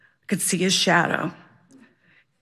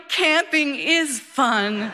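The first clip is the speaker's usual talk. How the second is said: slow and higher, laughing through it; 4 semitones higher, slower than usual. Real, not acted. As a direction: savour the callback with a laugh. Triumphant callback to the opening.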